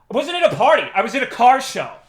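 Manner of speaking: high, loud, squealing whine of protest; hammed-up offended employee; mock indignant employee. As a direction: mimic her indignant excuse, way up high. Mocking the employee's excuse.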